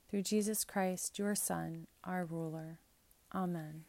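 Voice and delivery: measured, solemn liturgical prayer; prayer reading. Acted. Priest leading the congregation in collect prayers, solemn. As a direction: pray it aloud in steady cadence.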